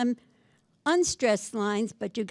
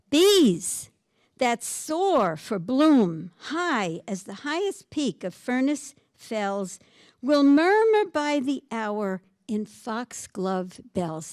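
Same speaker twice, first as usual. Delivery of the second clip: poem reading; slower than usual. Acted. Reading the sonnet aloud.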